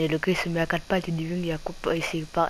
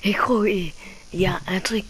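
whispering. Real, not acted. Quiet aside while playing.

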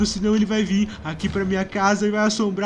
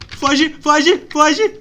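louder, frantic "run, run"; panicked urging; 4 semitones higher, 5 dB louder, much slower than usual. Real, not acted. Panicked gamer urging himself to run away. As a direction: urge yourself to flee. Fleeing from the monster.

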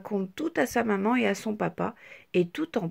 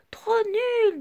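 much higher, louder jeer; taunting child; 12 semitones higher, 4 dB louder than usual. A narrator's reading. Petit Rectangle jeers at Petite Tache, high scornful. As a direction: spit it out scornfully. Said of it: "dit Petit Rectangle".

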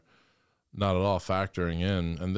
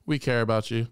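higher, louder sugary coo; mock sweet escorts; 3 semitones higher, 3 dB louder than usual. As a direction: imitate the fake caring. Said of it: "the same people who were like".

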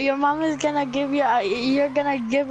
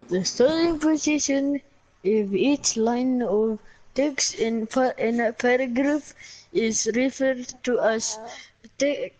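Russian accent. Shown as a demonstration. Reading from a book to show off a Russian accent. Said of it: "so I can do the Russian accent".

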